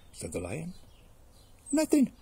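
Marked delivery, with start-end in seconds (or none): 1.7-2.1 very high little mouse squeak; caught mouse, innocent. Acted. Caught mouse denying to the lion, innocent squeak.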